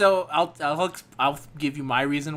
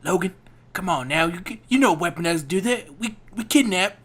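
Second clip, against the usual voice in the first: stilted fake Southern accent. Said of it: "this is how he speaks throughout the entire movie".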